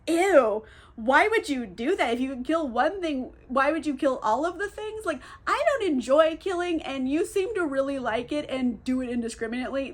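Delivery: squeamish, whiny voice; a light prissy disgusted tone; disgusted whiny James. Retold or imitated.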